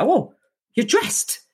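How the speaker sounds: high whispered surprise; surprised officer. Retold or imitated. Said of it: "the officer was like".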